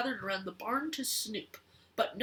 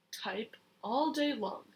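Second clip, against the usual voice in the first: whisper. Acted. Child reads, whispering a line.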